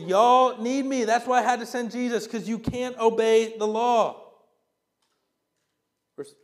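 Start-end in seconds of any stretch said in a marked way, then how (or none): 0.0-4.3 put-on God, southern accent. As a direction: proclaim it as a forceful southern God. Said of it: "God will have a southern accent".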